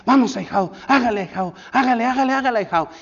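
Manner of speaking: root for the godson from behind; cheering godfather. Retold or imitated. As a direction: godfather yelling come on, keep going. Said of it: "Y él me decía".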